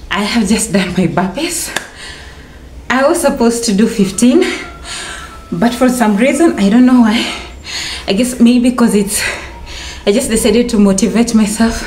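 winded after a workout; out of breath. Real, not acted. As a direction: talk while catching your breath. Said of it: "I'm catching my break".

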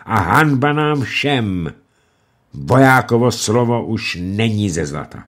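defiant prisoner. Acted. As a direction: stand firm and repeat it. Uhlenspiegel defiant refrain.

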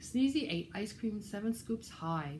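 put-on lively, rhythmic read-aloud for children; animated storytime reading; picture-book narration. A narrator's reading. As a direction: read a rhyming story to little listeners.

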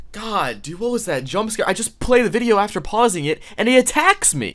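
high, shaken after a scare; rattled. Real, not acted. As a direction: still jittery from the fright.

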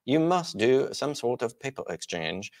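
mock British official turning someone down; London accent. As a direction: put on a stuffy London accent. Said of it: "they'll say".

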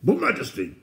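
high, anxious underling voice; high-pitched, loud timid objection; uneasy protest. Acted. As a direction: plead nervously with the king. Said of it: "shifting uneasily".

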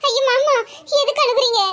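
acted rising alarm on the phone; alarmed pleading. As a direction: plead worriedly with a crying relative. Acted alarm at crying uncle.

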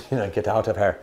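imitating a Scottish farmer, slipping into Irish; botched Scottish accent. Retelling how a farmer caught the trespassing hikers, botched Scottish accent. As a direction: attempt a Scots accent that comes out Irish. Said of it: "That was more of an Irish accent".

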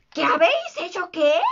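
understated captain's yell; mild outraged shout. A narrator's reading. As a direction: demand it, pitch jumping upward. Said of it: "gritó Garfio".

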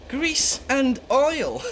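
slow, scoffing disbelief; incredulous echo. Acted. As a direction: drag out the words in disbelief. Scoffing echo of the rival's boast.

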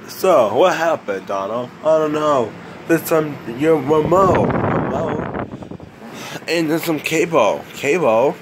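a hint of a cartoon voice; character voice. Voices game characters high.

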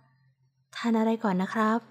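gentle, slow and caring; a touch of tender warmth, unhurried. A narrator's reading. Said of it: "เขาพูดด้วยน้ำเสียงอันอบอุ่น".

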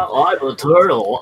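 playful cartoon turtle voice. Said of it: "I'm using the turtle voice".

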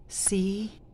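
"See" drawn out and hushed; stretched SEE. Shown as a demonstration. Asking the people to look far to the future, "See" stretched. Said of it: "Stretch the word see".

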